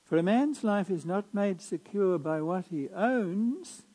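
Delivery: measured liturgical reading voice; Gospel proclamation. Acted.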